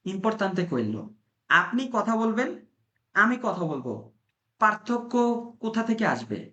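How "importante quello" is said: slow Italian. Shown as a demonstration. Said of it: "slow Italian phrase".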